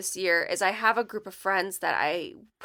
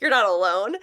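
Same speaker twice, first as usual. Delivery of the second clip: laughing; 6 dB louder than usual. Real, not acted. Laughing echo.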